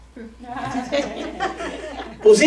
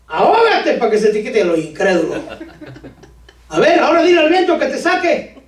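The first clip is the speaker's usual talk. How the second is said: mock impatient Jesus; 2 semitones higher than usual. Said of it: "qué afortunado Pedro que yo no era Jesús".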